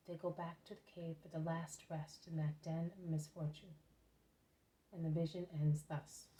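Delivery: measured, reverent storytelling voice; story narration. A narrator's reading. Reads a religious story aloud.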